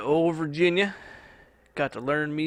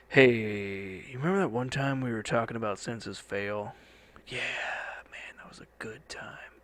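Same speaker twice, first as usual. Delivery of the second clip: put-on older self reminiscing. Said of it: "listen to 'em when we're fifty".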